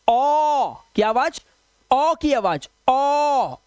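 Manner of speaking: ओ drawn out slowly and stressed; ओ said long, round and clear; sound demo. Shown as a demonstration. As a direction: model the vowel ओ carefully, like a teacher. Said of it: "ओ की आवाज करनी है आपको".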